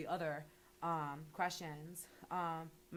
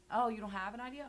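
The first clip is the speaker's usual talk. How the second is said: higher, louder mock surprise at no idea; a sarcastic, hammed-up oh-really; mock sarcasm; 5 semitones higher, 6 dB louder, faster than usual. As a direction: act fake-shocked, needling them. Sarcastic retort to bored people.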